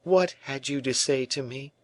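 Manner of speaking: high, strained, hurt; broken by anger and pain. A narrator's reading. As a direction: hold back pain and anger as you ask. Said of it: "in a voice broken by anger and pain".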